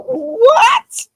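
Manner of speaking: high, loud startled cry; shocked what. Retold or imitated. Caught off guard by the coworker, crying out high. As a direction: yelp it in disbelief. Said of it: "And I go".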